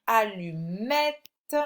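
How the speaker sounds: "allumette" slowed, with a long final è; emphasised è sound. Shown as a demonstration. Teacher ends the correction, è in "allumette" emphasised. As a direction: draw out "-mette" in "allumette". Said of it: "on entend bien le est".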